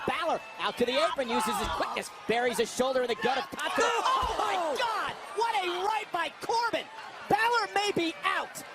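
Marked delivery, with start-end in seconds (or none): 3.9-8.6 excited. Real, not acted. Big move in commentary.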